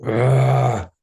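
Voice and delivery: mock scream held back in volume; imitated scream. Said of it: "like, screaming and just like".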